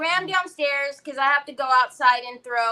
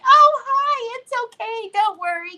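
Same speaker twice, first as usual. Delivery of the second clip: high, sing-song greeting; hammed-up kindly officer; imitated friendly reassurance; 10 semitones higher, 4 dB louder than usual. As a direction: gush a sweet hello to a child. Officer greeting her son kindly.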